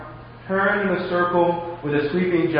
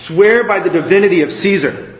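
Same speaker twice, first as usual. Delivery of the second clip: anxious urging; 3 semitones higher, 6 dB louder than usual. Acted. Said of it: "anxiously urged".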